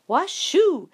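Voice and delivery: high loud whoop of victory; goal cheer. Acted. Boy scoring at air hockey, cheering loudly. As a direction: cheer the goal like a winning kid.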